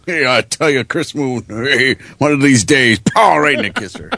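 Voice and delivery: Dangerfield impression. Shown as a demonstration. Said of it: "Ronnie Dangerfield".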